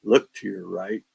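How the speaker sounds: casual, unbothered "Look to your right"; calmly pointing out the ghost to the guys; nonchalant. Retold or imitated. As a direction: say it offhand as if nothing is wrong. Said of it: "I said, just nonchalantly".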